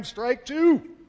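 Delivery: drawn-out, loud umpire shout; umpire's call. Retold or imitated. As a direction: bellow the call, high and slow. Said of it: "I hear the umpire go".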